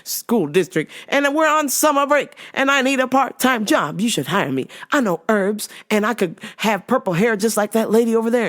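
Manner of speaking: lightly voiced pushy customer; imitating the customer. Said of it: "she's like".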